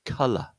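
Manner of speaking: "colour" with both vowels uh, first one stressed; short uh vowel. Shown as a demonstration. Teacher explaining the difference, "colour" with stressed uh. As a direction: say "colour" with uh as in cut, then schwa. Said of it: "that sound is an uh sound".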